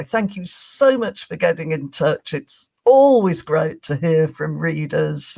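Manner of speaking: measured, over-courteous mock reply; imitating a scrupulously polite thank-you note; utmost politeness. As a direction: lay on the courtesy, lightly acted. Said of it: "with the utmost politeness".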